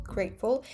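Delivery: "grateful" with a glottal stop for the T. Shown as a demonstration. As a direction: stop the air where the T goes in "grateful". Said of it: "uses a glottal stop in grateful".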